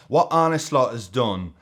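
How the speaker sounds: a lightly done Mancunian Gary Neville voice; a loose, half-hearted Manchester accent as a pundit; a rough Gary Neville Manchester accent, barely shifted. Retold or imitated. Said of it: "these accents are terrible".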